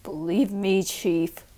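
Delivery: low, quiet and tight through the teeth; through clenched teeth. Acted. Inspector warns the chief quietly through clenched teeth. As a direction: menace kept under the breath. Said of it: "said through clenched teeth".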